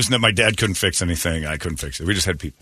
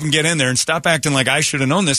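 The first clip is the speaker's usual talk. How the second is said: exasperated, raised pitch rant; mocking blah blah; 5 semitones higher than usual. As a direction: huff at the mechanic. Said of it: "I'm like".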